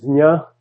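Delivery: dznya as one syllable; Sanskrit dz-nya sound. Shown as a demonstration. Teacher tracing a word's root, Sanskrit dz-nya. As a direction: buzz dz straight into nya. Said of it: "in Sanskrit".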